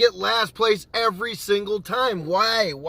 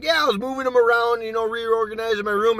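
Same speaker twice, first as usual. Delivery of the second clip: retold innocent excuse; 5 semitones higher than usual. Lying excuse to dad.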